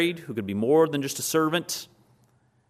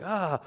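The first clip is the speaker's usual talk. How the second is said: higher-pitched mock startled "ah"; foggy waking cry; 7 semitones higher than usual. Someone woken in the middle of the night, mock startled cry. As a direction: imitate a groggy, startled wake-up cry. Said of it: "kind of in that fog".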